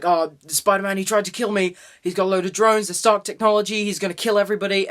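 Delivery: imitating a villain's hammed-up distress; mock victim's plea. Villain accusing Spider-Man on video, mock victim's plea.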